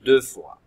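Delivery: "deux" hit loud and firm; teacher insists pupils read "deux fois"; stress on deux fois. Shown as a demonstration. "deux" appuyé fort. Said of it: "Ça nous aide à tout retenir".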